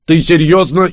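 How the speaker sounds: high, loud astonished question. Acted. Shas stunned by the witch's choice, astonished high question. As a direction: gasp out the disbelief. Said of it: "изумился Шас".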